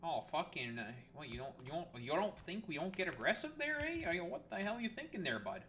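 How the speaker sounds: a lightly hammed riled-up Canadian; mock aggressive Canadian. Streamer shows chat how Canadians get aggressive, mock Canadian accent. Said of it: "when, like, Canadians get aggressive".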